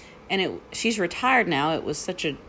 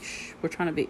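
softer hushing request; 7 dB quieter, faster than usual. Retold or imitated. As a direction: shush them gently. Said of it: "when I've just been like".

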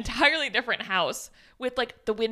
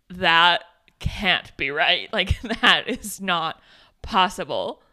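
slow, louder, stunned disbelief; 4 semitones lower, 4 dB louder, slower than usual. Retold or imitated. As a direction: spell out that it can't be right. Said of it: "and she's like".

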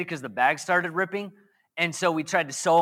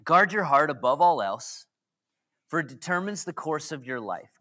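scripture reading; 3 semitones lower than usual. Shown as a demonstration. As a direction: read it out like holy scripture. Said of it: "Proverbs says this".

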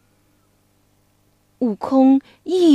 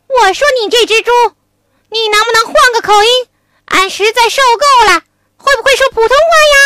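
Wukong; 8 semitones higher, 6 dB louder, much faster than usual. Acted. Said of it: "悟空说".

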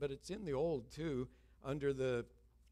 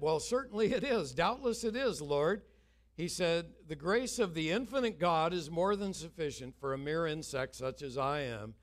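laughing; 5 semitones higher, 6 dB louder than usual. Retold or imitated. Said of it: "he laughed out loud".

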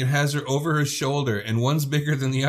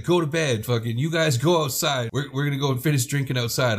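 angry; 3 semitones higher than usual. Retold or imitated. Luann ordering them around.

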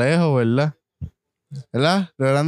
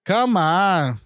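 high, mock Scouse "It is beautiful"; Liverpool accent; 6 semitones higher, slower than usual. Answering the Liverpool question, mock Scouse accent. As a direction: ham up a Liverpool lilt. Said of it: "si es de Liverpool".

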